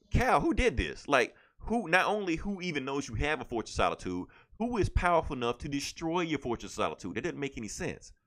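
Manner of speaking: high, urgent questions; alarmed Supergirl. Retold or imitated. Supergirl demanding answers from her cousin, high and alarmed.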